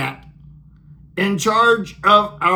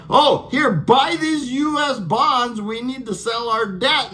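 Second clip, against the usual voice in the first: higher, lightly voiced pleading sales pitch; mock pleading; 7 semitones higher than usual. America begging its trashed friends to buy bonds, mock pleading. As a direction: play the begging seller, pushing the bonds. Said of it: "So like".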